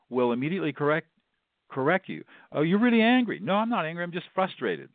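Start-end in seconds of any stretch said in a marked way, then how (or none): 2.5-3.4 higher, louder, emphatic acknowledgment; name their feeling with emphasis, pitched up; emphatic reflecting. Shown as a demonstration. Listener reflecting a speaker's anger back, emphatic. 3.4-4.9 high-pitched acted correction; mock protest. Upset speaker correcting a wrong guess, mildly protesting.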